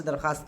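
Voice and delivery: दरख्वास्त said as darkhaast, in passing; easy darkhaast for दरख्वास्त; correct, silent w. Shown as a demonstration. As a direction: drop the w in दरख्वास्त. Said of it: "दरख्वास्त होता है".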